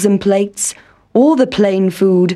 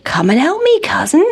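calling out; 6 semitones higher, faster than usual. A narrator's reading. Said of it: "called Country Mouse".

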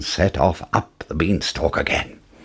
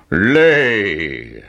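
giant's shout; 3 dB louder than usual. A narrator's reading. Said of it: "shouted the giant".

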